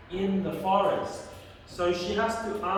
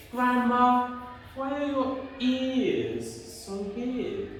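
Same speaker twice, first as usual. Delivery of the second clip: Red Riding Hood; 7 semitones higher than usual. Acted. Red Riding Hood looks at Grandma, high wondering voice. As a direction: wonder aloud in a high storybook voice. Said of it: "she looks at Grandma and she says".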